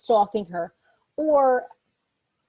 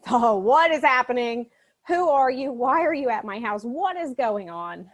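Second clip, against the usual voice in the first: raised, stretched-out panicky questions; mock freaked out; 2 semitones higher, 4 dB louder than usual. Girl confronting a stranger at her house, mock freaked out. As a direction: act out a bewildered freak-out. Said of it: "So now she's freaked out".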